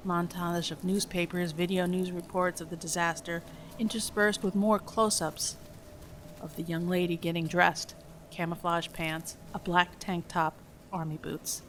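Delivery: measured, even script reading; screenplay narration. A narrator's reading. Reads film script aloud.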